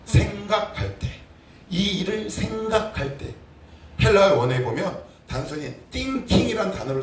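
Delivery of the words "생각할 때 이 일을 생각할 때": slow repeat. Shown as a demonstration. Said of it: "무슨, 이 일을 뭐 할 때요?".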